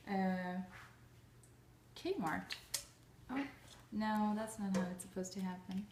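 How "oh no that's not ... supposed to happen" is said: small quiet dismay at a mistake; a soft, real oh no when something goes wrong; oops. Real, not acted. Mishap with the eggs.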